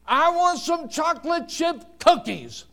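high-pitched imitation of a demanding child; crying out. Little boy in the cookie aisle begging his mother, crying out. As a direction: cry out like a pleading little boy. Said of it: "he cried out again".

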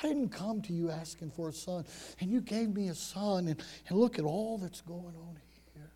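subdued, softly voiced reproach; hurt, mildly angry. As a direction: act a mother's quiet hurt. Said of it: "a little bit of anger and hurt in her voice".

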